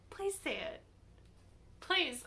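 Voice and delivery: soft, high breathy plea; pleading hush. Real, not acted. Reader softly pleading with Dean to say it. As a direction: beg the page quietly. Begging character to respond.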